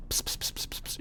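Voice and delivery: unvoiced psst sounds, very soft; whispered from afar. Kid whispering a secret from across the room. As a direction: whisper uselessly from ten feet off. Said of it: "you whisper".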